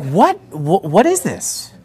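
baffled mom. Retold or imitated.

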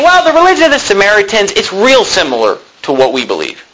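high opening, then dropping, as parody; mock tolerance. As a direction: feign easygoing agreement. Parodies a lenient Jesus.

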